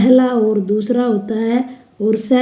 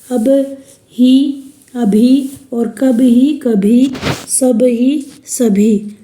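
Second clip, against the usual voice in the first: slow demo; much slower than usual. Shown as a demonstration. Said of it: "इस प्रकार से प्रयुक्त करते हैं".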